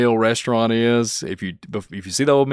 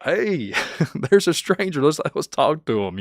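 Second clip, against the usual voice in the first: excited inner voice; 6 semitones higher than usual. Retold or imitated. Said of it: "I'm like".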